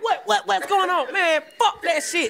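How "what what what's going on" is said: mock confused. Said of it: "nigga be like".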